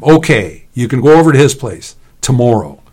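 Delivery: loud call to someone ahead. A narrator's reading. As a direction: call out the grudging permission. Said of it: "Leon called out to him".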